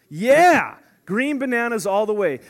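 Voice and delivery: mock cheer. Playful cheer for green bananas.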